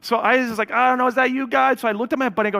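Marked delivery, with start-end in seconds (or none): 0.7-1.8 high, loud, hesitant protest; acting out nervous doubt, voice raised; retold uneasy doubt. Preacher recalls asking God if it's him, uneasy doubt.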